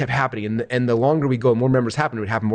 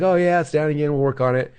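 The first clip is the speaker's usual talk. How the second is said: higher-pitched mock-casual reassurance; nice, easygoing reply; 4 semitones higher than usual. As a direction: lightly imitate an unbothered partner. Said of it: "He messaged back all nice".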